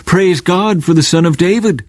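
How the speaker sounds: a gentle hint of excited praise; children shouting. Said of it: "the children in the temple shouting".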